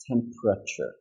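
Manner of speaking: TEMPERATURE as TEM-pruh-chur with P and R joined; three syllables. Shown as a demonstration. Teacher sums up the cluster for learners, three soft syllables. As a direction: say TEMPERATURE softly in three beats. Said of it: "So three syllables".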